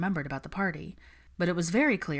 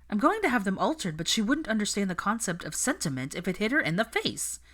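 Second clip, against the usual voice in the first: frustrated Padma; 4 semitones higher than usual. Acted. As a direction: let the annoyance spill out. Padma venting about wedding.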